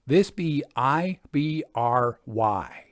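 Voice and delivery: slow village worker spelling I B R Y letter by letter; spelling the name out. A narrator's reading. Country roadworker spells the village name to travellers, slowly, letter by letter. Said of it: "spelling, not pronouncing the name".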